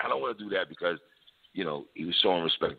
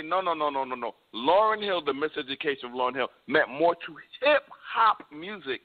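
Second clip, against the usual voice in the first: higher, mock-insistent voice of someone who disagrees; imitating an opposing fan; 8 semitones higher than usual. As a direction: play the other side, half-mocking. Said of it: "so you're saying somebody's gonna say".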